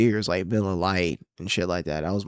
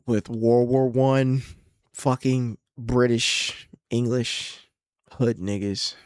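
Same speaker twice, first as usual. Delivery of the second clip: slow, drawn-out mock British; 5 semitones higher, 4 dB louder, much slower than usual. Speaker mocking his own British obsession in a slow mock British voice. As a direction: drag it out like a pompous Brit. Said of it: "mocking his own British phase".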